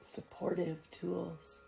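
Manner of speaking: unhurried yoga nidra guide, pausing between phrases; calm meditation voice; guided meditation. Acted. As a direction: settle listeners into rest with spaced-out phrases.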